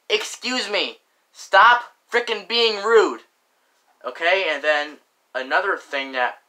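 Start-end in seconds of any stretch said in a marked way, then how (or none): 0.1-1.0 polite excuse me. Shown as a demonstration.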